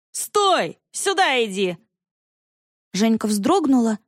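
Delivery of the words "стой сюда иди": high rough shouting; hoarse yell. A narrator's reading. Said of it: "хрипло заорал здоровенный". (хриплый крик вдогонку)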